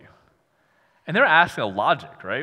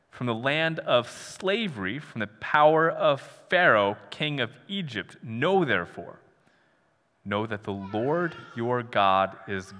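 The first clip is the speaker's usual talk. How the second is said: scripture reading; 2 semitones lower, slower than usual. Acted. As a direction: read the passage slowly and solemnly, letting each phrase land. Reads scripture aloud.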